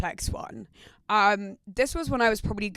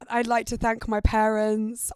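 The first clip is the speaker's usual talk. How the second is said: mock acceptance speech. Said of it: "I did a whole acceptance speech".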